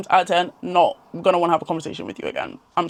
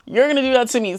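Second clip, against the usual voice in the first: mock suspicious repeat; 5 semitones higher than usual. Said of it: "people just think".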